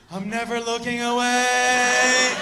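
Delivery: slow, last word long held; transfixed vow. Retold or imitated. Onlooker watching sweaty belly, slow transfixed vow. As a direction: stretch it out, as if mesmerised.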